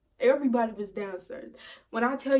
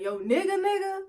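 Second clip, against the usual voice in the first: incredulous double-check; 9 semitones higher than usual. Retold or imitated. Man asking if that's really her boyfriend, incredulous. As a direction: voice jumps high on the last word.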